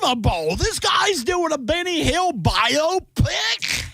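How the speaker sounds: very high, wobbly mock-British voice; hammed-up British accent. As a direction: squeal it in a bad British-Australian accent. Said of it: "would you say that that accent is?".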